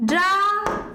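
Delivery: ড্রামাটিক split, long drawn ড্রা, then মাটিক after pauses; syllable by syllable. Shown as a demonstration. Teacher sounding out the word while writing, ড্রামাটিক split into syllables. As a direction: break ড্রামাটিক into slow, separate syllables. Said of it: "ড্রামাটিকটা এখন দেখে নিই".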